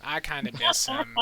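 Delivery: lightly mock wistful tone. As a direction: pretend to be sad about it. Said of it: "Just playing".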